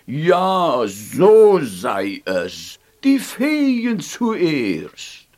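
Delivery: very slow, weighty pronouncement; slow, regal decree; solemn decision. Acted. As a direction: decree it slowly. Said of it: "der gelbe Alte entschied".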